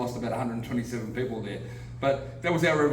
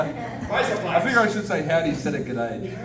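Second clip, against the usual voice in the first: chuckling through the line; amused at his own greeting; laughing; 4 semitones higher, slower than usual. Real, not acted. Australian speaker greeting Texans, laughing.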